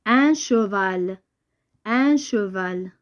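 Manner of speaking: slow, measured classroom reading; slow dictation. Shown as a demonstration. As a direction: stretch the words out for young learners. Teacher sounds out word for pupils. (قراءة بطيئة ديال الإملاء)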